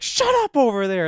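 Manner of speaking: loud, high, slowed mock scolding; hammed-up shout to hush someone; retold annoyed yell. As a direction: imitate yelling across the room for silence. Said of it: "Jamal and Felicia are like".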